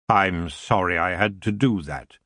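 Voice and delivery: a hint of a lazy, regal king; the elf king greeting Tiffany with cool amusement.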